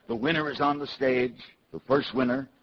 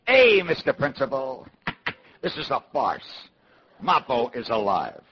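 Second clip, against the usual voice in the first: drawn-out heckle from the crowd, moderately raised; mock yelling out; 5 dB louder than usual. Typical New York kid yelling out to the principal, slow mock yell. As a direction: call it out slowly, half yelled. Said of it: "yells out".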